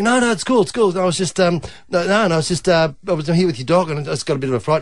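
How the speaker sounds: high, flustered denial; lightly voiced embarrassed man. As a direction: babble it out, caught off guard. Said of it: "he's going".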